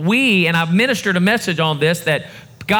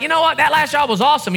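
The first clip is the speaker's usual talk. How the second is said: high-pitched, acted enthusiasm; upbeat enthusiasm; 7 semitones higher, faster than usual. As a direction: play someone cheerfully looking back. Acting someone who reached the victory.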